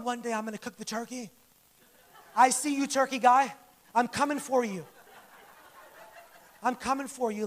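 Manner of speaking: low, half-serious rival's threat; mock determination. Acts out aspiring turkey cook's inner vow.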